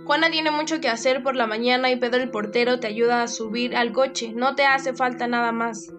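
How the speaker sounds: irritated scolding. Acted. Mother scolds scared daughter.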